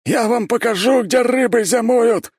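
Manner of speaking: high, loud and slow furious roar; roaring rage. A narrator's reading. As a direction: bellow a threat through the bars. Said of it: "ревел Константин".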